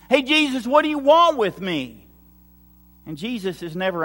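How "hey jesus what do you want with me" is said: higher, louder shouted challenge; imitated demon shout. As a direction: call out loudly as the possessed man. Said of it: "he's shouting as loud as he can".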